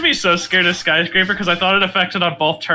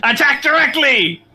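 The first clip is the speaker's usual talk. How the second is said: dramatic command; 8 semitones higher, 3 dB louder than usual. Pretend. Dramatic attack call.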